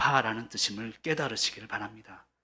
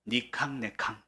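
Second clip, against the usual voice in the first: Gyeongsang dialect; 5 dB quieter, slower than usual. Shown as a demonstration. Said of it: "경상도 사투리로".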